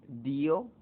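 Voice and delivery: Dio as two beats, DÍ-o, rising; stress on the weak vowel. Shown as a demonstration. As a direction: lean on the i in Dio, lifting at the end. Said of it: "recae sobre la débil la mayor fuerza de voz".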